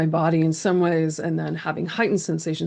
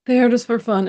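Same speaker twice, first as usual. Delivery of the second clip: put-on higher, frightened child's cry; a scared little kid telling what happened; fearful small child; 6 semitones higher, 5 dB louder than usual. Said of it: "There's such fear in my small voice".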